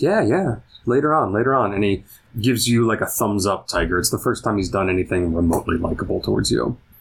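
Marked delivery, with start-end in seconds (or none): 0.0-1.7 bright, good-natured, cheerful and friendly tone. Voicing Eddie, who smiles and answers the player: cheerful, with a big smile. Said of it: "a big, genuine smile and goes".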